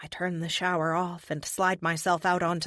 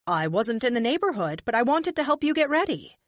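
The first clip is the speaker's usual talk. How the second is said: excited; 5 semitones higher, 4 dB louder than usual. A narrator's reading. Kate answers cheerfully, loudly.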